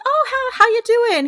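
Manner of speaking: high-pitched imitation of a chatty neighbor; mock folksy greeting, lifted well up; neighborly small talk.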